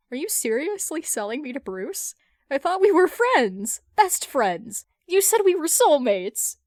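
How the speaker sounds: high, loud betrayed protest; outraged whine. Acted. Hal protests to Carol that she's selling him, loud and high. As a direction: wail it like a jilted best friend.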